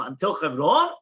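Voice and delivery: "Until Chevron" lifted into a question; questioning rise on "Chevron"; asking. Acted. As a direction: ask "Until Chevron" with a rising end. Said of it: "They ask him".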